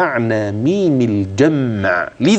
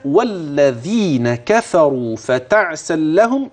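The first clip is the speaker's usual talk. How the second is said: recitation, stopping short; slower than usual. Shown as a demonstration. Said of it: "لو ضاق النفس".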